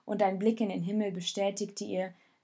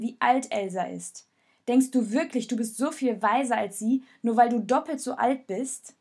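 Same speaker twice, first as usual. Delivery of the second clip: raised, reproachful voice, pressing him hard; angry accusation; 5 dB louder than usual. Acted. Jonas blames Raoul for Elsa, angry and raised. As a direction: scold him like a friend who has gone too far.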